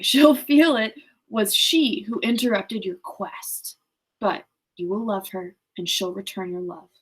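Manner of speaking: measured read-aloud voice; story narration. A narrator's reading. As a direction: read the novel aloud, evenly paced. Reads the novel aloud.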